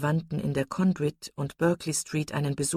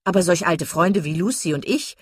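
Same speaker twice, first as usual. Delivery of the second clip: silly chattering Miss Steele; 2 semitones higher, 7 dB louder than usual. A narrator's reading. Miss Steele bragging about the doctor, giddy chatter. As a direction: prattle on, pleased with herself.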